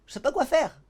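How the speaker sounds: desperate student. Acted. Student begging the rabbi for advice, helpless and pleading. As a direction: throw up your hands, helpless.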